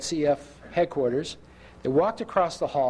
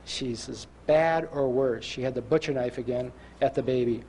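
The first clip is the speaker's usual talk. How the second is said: retold tearful report; 4 semitones lower than usual. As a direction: report bad news heavily, mildly imitating a crying father. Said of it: "he's crying again".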